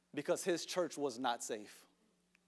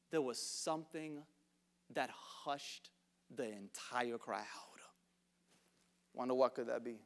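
much softer, sinking to a whisper; storyteller's whisper as the crowd falls silent; hushed; 6 semitones lower, 8 dB quieter than usual. Acted. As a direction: let the words fall to a hush. Describing the crowd falling silent.

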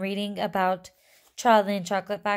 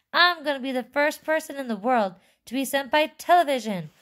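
high, quick, eager boasting; excited shouting; 7 semitones higher, 4 dB louder, faster than usual. A narrator's reading. Boy racing to be first on television, high excited shout. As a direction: rush it out with glee, pitched up. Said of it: "he shouted as he ran".

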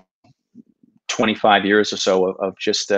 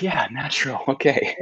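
dry sarcasm; 5 dB quieter than usual. Retold or imitated. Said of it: "And you're like".

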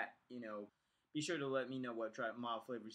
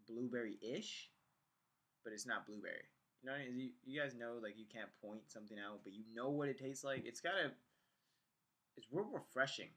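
lips pressed on mouthpiece; slightly obstructed lip movement; talking with hose at lips; 2 semitones lower, 4 dB quieter than usual. Real, not acted. Seen 1: hose mouthpiece rests on lips while he talks throughout.

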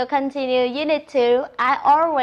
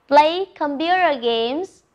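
slow model; 2 semitones higher, slower than usual. Shown as a demonstration. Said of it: "Look at the picture and say".

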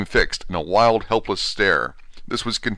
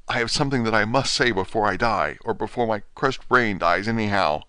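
desperate dying patient pressing the doctor, raised and urgent; hurried, energetic; 3 semitones higher than usual. Acted. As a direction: rush it out, a dying man racing the clock. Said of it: "he said, hurriedly, and with more energy".

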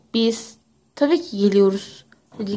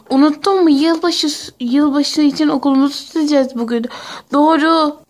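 excited; 4 semitones higher than usual. Acted. Excited about New Year decorating.

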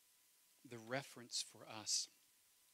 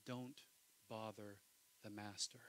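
dismissive disciples; 3 semitones lower, 5 dB quieter than usual. Retold or imitated. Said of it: "it's like this".

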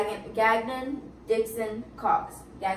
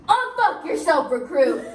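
drawn-out, raised instructor voice; mock drill yell; 2 semitones higher, 3 dB louder, slower than usual. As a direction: chew out a recruit in imitation, slowly. Acted Whistler yelling at recruit.

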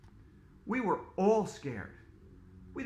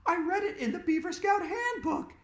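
put-on urgent girl; 12 semitones higher than usual. A narrator's reading. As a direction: command the friend urgently. Andrea answering.

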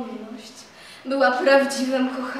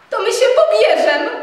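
insistent exclaim; 9 semitones higher, 11 dB louder than usual. A narrator's reading. Telimena insisting on marriage.

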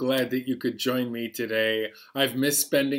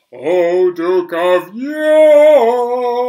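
loud, high call to summon the Duke; big happy call-out for the kids; 8 semitones higher, 11 dB louder, slower than usual. Shown as a demonstration. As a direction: call him in at full voice. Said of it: "Are you ready to call him with me?".

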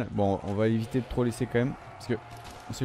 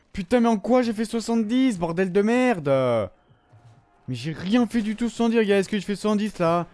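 higher, insistent outraged pleading; indignant protest; 6 semitones higher than usual. Real, not acted. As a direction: argue with the game in disbelief. Protesting unfair score.

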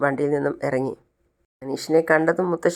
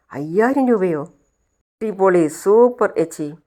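delighted; 3 semitones higher, 3 dB louder, much slower than usual. Acted. Uncle delighted at the money.

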